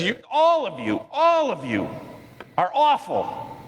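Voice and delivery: high, hammed-up exasperated scolding; mock outrage, pitched well up. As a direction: act out telling off the whole crowd. Jesus scolding the whole crowd.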